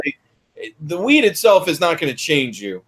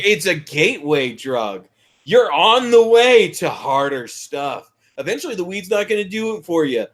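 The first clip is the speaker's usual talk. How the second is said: slow, drawn-out preachy warning; ponderous cautionary voice; mock anti-drug warning. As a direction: imitate a solemn drug lecturer, dragging the words. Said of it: "They're just like".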